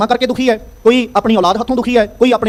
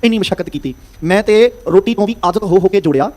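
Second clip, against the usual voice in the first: grieving miser; 4 semitones lower than usual. Retold or imitated. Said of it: "ਫਿਰ ਉਹ ਦੁਖੀ ਹੁੰਦਾ".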